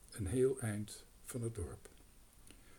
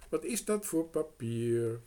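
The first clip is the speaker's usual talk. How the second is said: louder, stressing dat; louder girl pressing on dat; insistent repeat; 4 semitones higher, 8 dB louder than usual. A narrator's reading. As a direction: ask again, impatient now.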